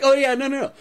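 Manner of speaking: very high, airy no-no-no; ditzy denial. Retold or imitated. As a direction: innocently deny the obvious. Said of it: "acting super ditzy".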